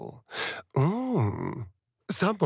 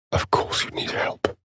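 hushed tease. Acted. Companion teasing someone who needs help, whispered. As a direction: whisper it with a sly edge.

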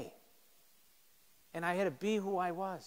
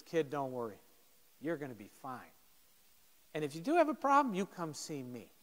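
softer, gentle comfort; calm him down like a big brother; reassuring; 3 semitones lower, 4 dB quieter than usual. Retold or imitated. Captain with arm around the freshman, soft reassurance.

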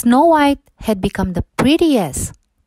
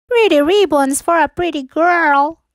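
put-on higher, wheedling old-woman voice; disguised old peddler; 8 semitones higher than usual. A narrator's reading. Disguised queen tempting Snow White with ribbons, wheedling. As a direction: lure her in like a sly peddler.

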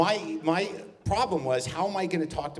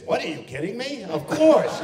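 higher, Borscht Belt Jewish New York lilt; hammed-up Jewish New York shtick; full Jewish New York; 8 semitones higher, 5 dB louder than usual. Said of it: "I'm talking like this".

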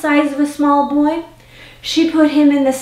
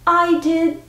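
put-on boy in a sack; 6 semitones higher than usual. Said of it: "said the sack".

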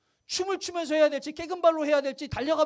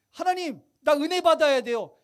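insistent prayer demo; 5 dB louder than usual. Shown as a demonstration. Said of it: "이거 백 번, 천 번 하는 거예요".

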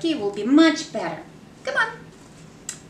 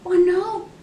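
sharp gasp then higher oh no; 5 semitones higher than usual. Acted. Reader reacting to the falling plate, gasp and higher alarm. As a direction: catch your breath in alarm.

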